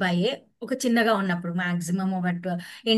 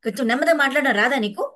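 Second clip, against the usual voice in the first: a mild mock scold, a bit louder; mock angry mother; 4 semitones higher, 3 dB louder, faster than usual. Mother snapping back at her talking-back child, mild mock scold. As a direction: scold the child for raising his voice. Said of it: "అంటే".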